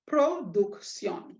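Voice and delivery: Production said slowly, syllable by syllable, falling at the end; slow demo word. Shown as a demonstration. Teacher sounding out the word for students, slow and clear. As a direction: draw out Production for the class. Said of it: "We check the end of the word".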